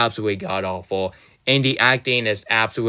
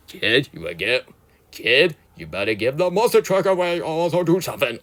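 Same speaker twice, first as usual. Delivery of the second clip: mock villain threat; 4 semitones higher than usual. Mocking the generic villain.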